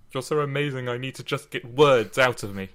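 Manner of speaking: a light upper-class British accent, mock lovestruck; playing the smitten poet in upper-class British. Podcaster voicing a smitten Shakespeare, in a light upper-class British accent. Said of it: "in that upper-class British accent".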